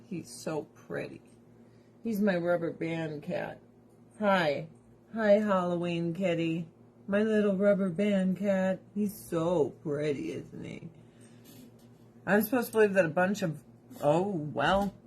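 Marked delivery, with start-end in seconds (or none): 0.1-10.9 cooing to cat. Real, not acted.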